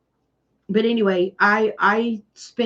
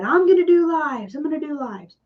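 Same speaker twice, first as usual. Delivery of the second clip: excited vow; 7 semitones higher than usual. Retold or imitated. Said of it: "and I said".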